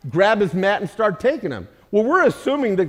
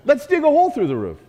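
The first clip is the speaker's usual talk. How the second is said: higher, faster, laughing through it; 8 semitones higher, faster than usual. Retold or imitated. Joking about visiting Carmel's house, laughing and high. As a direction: tease it with a laugh. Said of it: "It's like when we stopped".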